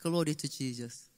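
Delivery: slow, low and soft pious formula; family deflecting praise, slow and hushed; solemn quiet. Retold or imitated. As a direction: say it like a family ritual. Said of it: "딱 나오는 말".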